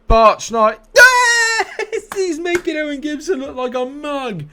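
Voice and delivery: high, loud laughing goal yell; goal scream. Real, not acted. Goal scored, yelling.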